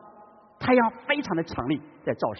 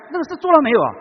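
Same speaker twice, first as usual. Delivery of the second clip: wife calling again; 9 semitones higher, 8 dB louder, faster than usual. Retold or imitated. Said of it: "再喊一声".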